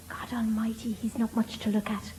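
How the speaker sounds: unimpressed thought to oneself; private aside. Acted. Voicing a woman's private thought.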